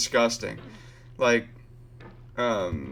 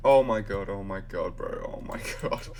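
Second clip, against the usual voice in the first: shocked laughter; 3 semitones lower than usual. Real, not acted. Reaction to something unbelievable.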